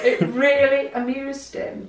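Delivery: laughing. Real, not acted. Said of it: "laughing while retelling".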